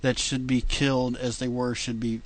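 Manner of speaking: reading scripture aloud, steady and measured; King James reading. Acted. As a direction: read it like a Bible passage. Reads scripture.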